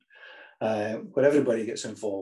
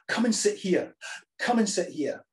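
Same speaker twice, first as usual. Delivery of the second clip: calling across the hall, higher; calling to a friend; 6 semitones higher than usual. Acted. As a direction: call your friend over eagerly. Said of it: "you gesture to them, you say".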